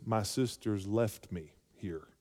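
slow, resentful complaint; mock grumbling sister, slowed right down; Martha's complaint. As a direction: drag it out, feeling abandoned. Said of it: "you can hear it in her words".

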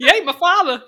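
high, loud, laughing outburst; mock dramatic yell. Echoing cohost's father quote, laughing mock yell. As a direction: holler the quote, amused.

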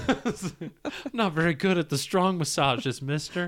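put-on high, meek little-boy voice; shy kid apologizing; timid small boy. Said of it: "Is she about to say mister".

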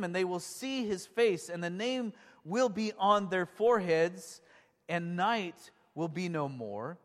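slow, measured Bible reading; scripture reading. Real, not acted. Preacher reading prophecy to the congregation, solemn and deliberate. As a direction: proclaim it deliberately, phrase by phrase.

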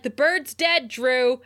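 snappy retold retort, pushed up in volume; mock snapping. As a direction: imitate someone irritably snapping. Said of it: "he snaps at her".

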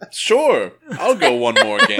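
breezy God, lifting high on the first word; lightly voiced God. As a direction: toss it off as an amused God. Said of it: "he said".

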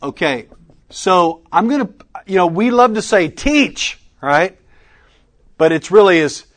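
normal talking voice

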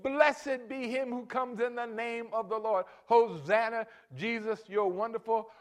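high, loud and slow exclamation; drawn-out joyful proclaiming; praise shout. Shown as a demonstration. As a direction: proclaim it slowly, full voice. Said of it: "you can say".

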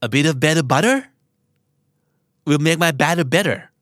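each word placed slowly and clearly; slow, careful tongue twister. Shown as a demonstration. Teacher drilling a tongue twister for learners, slow and deliberate. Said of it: "พูดไปห้าครั้งนะครับ".

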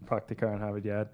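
Harvard Yad with the r dropped; Boston accent. Shown as a demonstration. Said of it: "How do Boston people say Abraham?".

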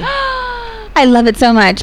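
high, slow gushing delight. Real, not acted. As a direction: swoon over the basket. Gasps over the basket.

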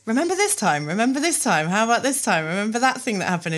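gleeful inner critic listing every slip; nagging inner voice. Retold or imitated. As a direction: pile on the bad memories eagerly. Voicing her own nagging brain.

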